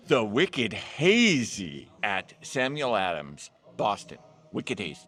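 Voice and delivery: hammed-up Southern accent mixed with Boston; mock Southern-Boston accent. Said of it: "the weirdest Southern accent combined with a Boston accent".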